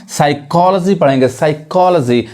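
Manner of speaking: साइकोलॉजी said as "sai-KOL-uh-ji"; साइकोलॉजी with a short uh after the l; correct pronunciation. Shown as a demonstration. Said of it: "अब इसको क्या कहेंगे".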